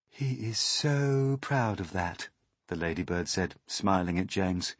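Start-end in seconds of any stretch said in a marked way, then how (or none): 0.1-2.3 tag. Acted. Ladybird comments to James.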